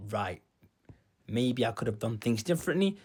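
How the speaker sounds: low, soft thinking aloud; hushed, low-pitched musing; subdued reflection. Retold or imitated. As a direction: drop low and quiet, as if reflecting. Retelling his private reflection afterwards.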